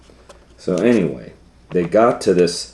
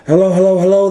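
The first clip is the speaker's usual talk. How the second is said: firemen answering; 11 semitones higher, 6 dB louder, much faster than usual. Acted. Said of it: "they said".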